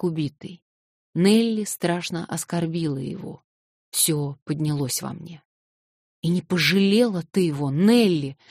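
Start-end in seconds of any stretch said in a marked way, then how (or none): 6.2-8.4 loud reproach; reproachful cry. Acted. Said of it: "вскричал я".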